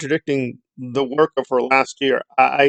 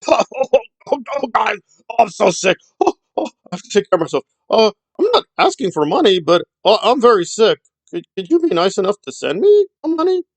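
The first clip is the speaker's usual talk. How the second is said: high, whimpering fake sick voice, much higher; hammed-up invalid moaning for pity; a whiny mock sufferer fishing for money; mock sick whine; 6 semitones higher than usual. Mocking Nora as fake sick.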